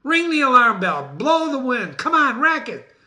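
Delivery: high, loud commands; rallying Macbeth. Acted. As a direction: sound every alarm at once.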